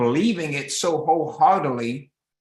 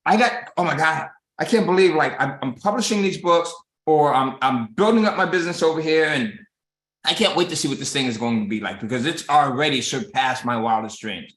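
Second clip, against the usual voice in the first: excited. Retold or imitated. To a listener, bragging about the business, thrilled and eager. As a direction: gush like you can't contain it. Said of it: "But if you're like".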